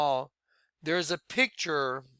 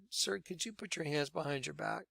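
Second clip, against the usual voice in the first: much softer, discreet quote; quiet, in the ear; 13 dB quieter than usual. Retold or imitated. Officer behind him asking for his hands, quietly into his ear. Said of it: "right to my ear".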